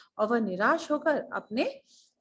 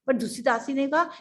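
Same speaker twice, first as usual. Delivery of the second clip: plain reading voice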